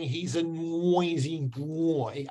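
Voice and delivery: put-on slow Myanmar accent, "noisy boy" as "nwoisy bwoy". Shown as a demonstration. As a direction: imitate a Myanmar learner's w glide in "noisy boy". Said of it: "So instead of saying".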